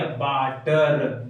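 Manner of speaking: वाटर stretched very slowly, each syllable held; drawn-out word. Shown as a demonstration. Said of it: "इसके आगे क्या लग गया?". (वाटर को बहुत धीरे खींचकर बोलना)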